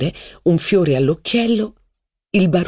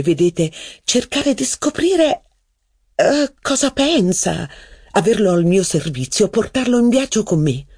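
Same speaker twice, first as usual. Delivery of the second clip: dreamy and flirtatious, high; flirty female voice; 6 semitones higher than usual. Acted. Mistress musing to narrator about the waiter's eyes.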